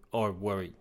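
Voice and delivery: hoarse voice giving out; voice cracking. Real, not acted. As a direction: voice breaks on the words. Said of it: "I'm losing my voice".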